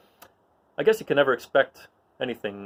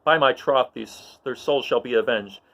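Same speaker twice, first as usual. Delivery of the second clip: louder, rousing call to arms; rallying battle speech; 3 dB louder than usual. Acted. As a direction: stir the troops before the charge. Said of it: "And Luke says".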